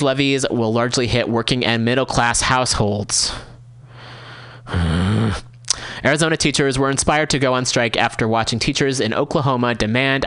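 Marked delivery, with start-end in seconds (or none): 4.7-5.4 sigh. Real, not acted. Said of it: "I sigh".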